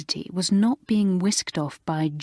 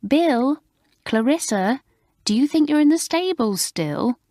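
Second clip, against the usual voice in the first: calling out sharply; 8 semitones higher than usual. Acted. Alicia calling across the table to Bill and Clarissa, exasperated. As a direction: snap them out of their chatter.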